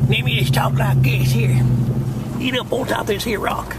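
put-on a light, playful Southern accent, pitched a little high; hamming up a Southern twang for his wife; mock southern accent. Lightly joking Southern accent to tease his wife. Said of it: "You like when I talk like a southerner?".

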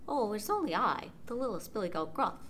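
small timid goat voice; tiny, meek goat. Acted. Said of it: "his voice was very small".

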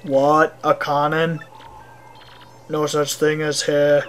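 put-on low-key, monotone Russian accent; guarded Russian mayor. Mayor denies the cannon to visitors, guarded Russian accent. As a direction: stonewall in a thick fake Russian voice.

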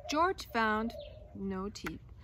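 lively storybook reading voice; reading to children. A narrator's reading. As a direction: read the tale aloud to a class. Reads picture book aloud.

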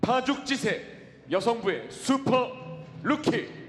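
building from loud to a huge drawn-out high shout; arena announcer. Acted. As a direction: build it up and explode on the name. Announcer builds to name call.

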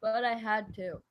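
talking through a yawn; words stretched by a yawn. Real, not acted. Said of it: "I need to stretch and yawn".

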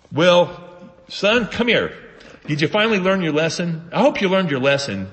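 mock a father who still holds a grudge; grudging human father. Preacher mocking how we picture God, as a grudging father. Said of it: "That sounds like a human".

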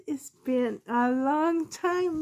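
high, slow sing-song line to the pets; cooing to pets. Real, not acted. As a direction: stretch it out, cooing at them. Greeting pets on camera.

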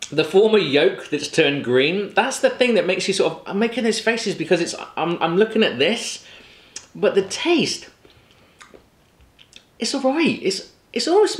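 chewing while talking; talking between bites; mouth partly full. Real, not acted. Seen 0: bites yolk at -1.0, then talks grimacing, lips working, egg in hand.

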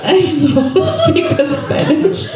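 slow, high, hammed-up Asian accent; stereotypical Asian accent. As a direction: put on a drawn-out caricature Asian accent. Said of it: "the most stereotypical Asian accent".

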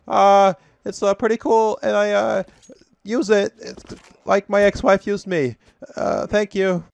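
high, loud put-on customer voice; satisfied customer testimonial. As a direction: play a dopey satisfied customer. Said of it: "a word from some satisfied fucking customers".

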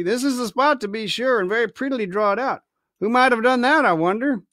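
a sly pirate cook musing over the chart; Silver's voice. Acted. Silver musing over the captain's chart, lightly voiced old sailor.

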